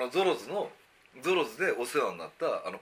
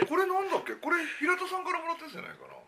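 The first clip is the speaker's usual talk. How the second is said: mouth full. Real, not acted. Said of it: "チョコ食いながら喋ってるからね".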